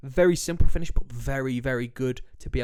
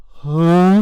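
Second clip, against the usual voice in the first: baffled goalkeeper; 4 semitones higher, 13 dB louder than usual. Retold or imitated. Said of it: "Vicario just looking up in the air like".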